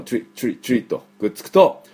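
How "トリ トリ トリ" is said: トリ as one "chree" syllable; fuse t and r in トリ; quick "tree" for トリ; English "tri" sound. Shown as a demonstration. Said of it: "最初のトリ".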